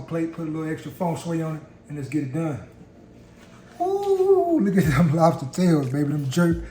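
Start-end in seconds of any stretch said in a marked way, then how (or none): 3.8-6.6 excited. Real, not acted. Admiring the finished lobster tails.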